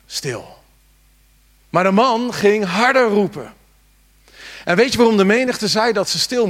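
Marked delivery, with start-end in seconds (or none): 0.1-0.6 shushing. Acted. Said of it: "En de menigte die zei".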